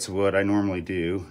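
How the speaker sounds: breathless and huffing; out of breath. Real, not acted. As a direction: talk while catching your breath. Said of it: "sorry that I'm out of breath and breathing in the camera".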